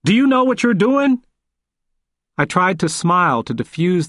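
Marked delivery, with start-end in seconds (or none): 0.1-1.2 higher, insistent question, wagging a finger; forceful repeat. Acted. Old man repeats his challenge to the lawyer, insistent and raised. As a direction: push the same question harder.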